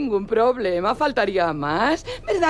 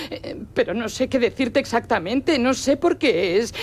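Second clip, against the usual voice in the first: usual speaking voice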